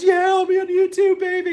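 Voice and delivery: high, loud whooping shout; imitated wild excited shout; going crazy. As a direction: mimic a hyped guy yelling for the camera. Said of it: "he's going crazy".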